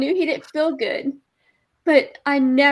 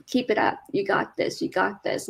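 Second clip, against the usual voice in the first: soft encouragement; 4 semitones lower, 6 dB quieter than usual. Retold or imitated. Encouraging ailing husband.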